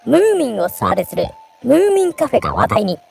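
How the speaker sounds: variety show narration. Shown as a demonstration. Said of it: "ちょっとナレーション風に".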